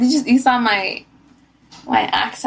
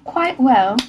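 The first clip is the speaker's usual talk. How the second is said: put-on English accent. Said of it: "I'm feeling Rebecca".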